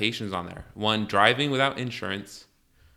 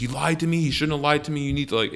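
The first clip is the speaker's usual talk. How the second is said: higher-pitched mock scolding; imitated angry cop; 5 semitones higher, faster than usual. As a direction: act out an accusing officer. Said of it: "she was just going crazy".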